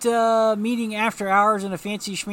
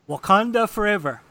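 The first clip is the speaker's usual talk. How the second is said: rallying cry; 3 semitones higher, 8 dB louder than usual. Acted. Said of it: "Atlas Bear, of course, says".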